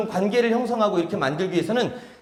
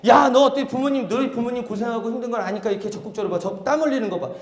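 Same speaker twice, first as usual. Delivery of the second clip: enthusiastic praise; 3 semitones higher, 3 dB louder than usual. Acted. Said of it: "계속 칭찬합니다".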